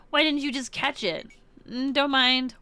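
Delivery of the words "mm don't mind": "don't mind" in a light mock Japanese accent, anime style; fake Japanese accent. Teammate consoles Akarsha in a mock Japanese anime accent. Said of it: "You even said it with a fake Japanese accent".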